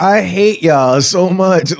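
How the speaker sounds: slow, laughing almost to tears. Real, not acted. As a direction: laugh through the words in disbelief. Laughing at friend's dumb remark.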